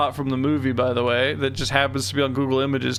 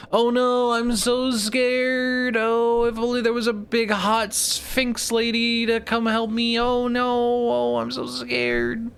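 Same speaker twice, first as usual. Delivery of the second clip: high, drawn-out damsel wail; badly faked helpless pleading, slow and high; mock fear; 8 semitones higher, slower than usual. Hammed-up damsel begging sphinx's help.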